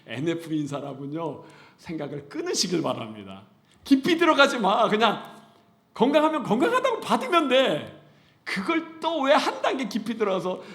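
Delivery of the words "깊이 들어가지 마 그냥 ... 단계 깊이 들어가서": loud, high-pitched urging with laughter; preacher scolding overthinkers with a laugh; forceful preaching. Acted. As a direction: press the point hard from the pulpit. Preacher exhorting the congregation.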